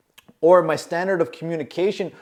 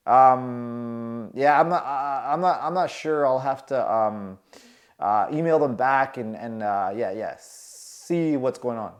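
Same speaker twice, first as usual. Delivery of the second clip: halting, trailing off; stammering; 3 semitones lower than usual. Retold or imitated. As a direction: stammer nervously. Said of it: "I'm stuttering".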